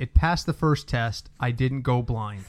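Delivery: a slow, dopey Homer Simpson line, only lightly put on; Homer Simpson impression. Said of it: "Or as Homer would say".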